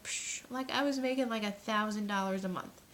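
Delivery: confident, dismissive brag, lightly imitated; Bridget. Coach imitating a young earner's brag, breezily confident. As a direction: toss it off with mock confidence. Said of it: "Bridget just had that confidence".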